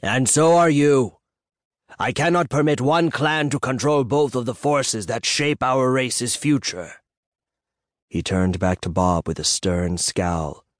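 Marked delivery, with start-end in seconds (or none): 0.0-7.0 angry. A narrator's reading. The elder seer refusing to let one clan rule, angry. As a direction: lay down the law to Bob. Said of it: "the Black Reach said angrily".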